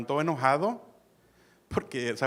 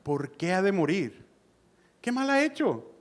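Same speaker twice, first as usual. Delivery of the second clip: súplica que busca recapacitar; 3 semitones higher than usual. Retold or imitated. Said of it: "lo está ayudando a que recapacite".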